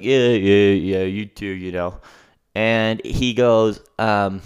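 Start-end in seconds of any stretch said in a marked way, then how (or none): 0.0-2.0 low, loud brush-off, lightly imitated; mock a big shot barely bothering with pleasantries; dismissive bigwig imitation; self-important bigwig. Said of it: "he acts like he's a bigwig".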